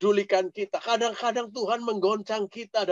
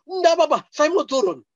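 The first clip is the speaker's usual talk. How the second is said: put-on pleading child; 8 semitones higher, 4 dB louder, faster than usual. Boy begs to come down.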